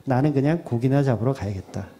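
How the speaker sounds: preacher voicing Peter, helplessly giving up; helpless resignation. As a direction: give up all at once, quietly. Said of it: "완전 무기력하게".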